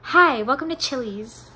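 bright polite greeting, like a waitress; customer service voice. Shown as a demonstration. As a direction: greet a customer, lightly put on. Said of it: "this is my customer service voice".

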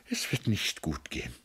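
hushed tearful resignation; tearful, subdued. Acted. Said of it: "Sie schüttelte weinend den Kopf".

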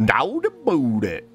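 pirate trader greeting; fake cowboy accent. Echoing the shopkeeper's greeting.

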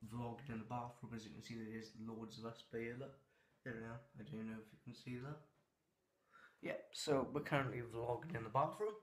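hollow bathroom echo. Real, not acted. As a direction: talk into a tiled, echoing room. Vlogging inside the bathroom.

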